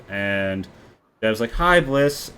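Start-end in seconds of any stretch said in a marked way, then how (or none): 1.5-2.3 lightly lifted, pleased hello; happy greeting. Acted. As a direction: greet a welcome friend a bit higher. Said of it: "Dev is very happy to see Bliss".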